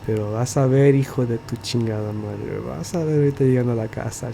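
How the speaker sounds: softly menacing, the last line rushed; quiet Spanish threat. Retold or imitated. Mom warns her son quietly, a muted threat in Spanish. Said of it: "just quietly".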